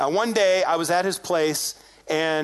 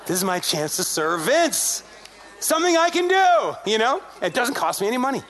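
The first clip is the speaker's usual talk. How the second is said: mock-excited inner voice, jumping higher on the realisation; eager resolve; 3 semitones higher than usual. Preacher retelling his thought on spotting a chance to serve, eager. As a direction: act out a sudden bright idea, building up.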